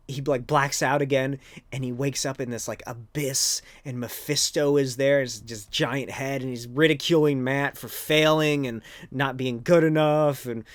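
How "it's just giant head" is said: usual speaking voice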